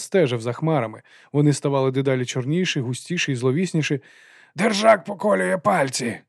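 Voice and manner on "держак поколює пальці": high, slow called-out warning; shouted warning. A narrator's reading. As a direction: shout it over the wind. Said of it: "крикнув Лудзе".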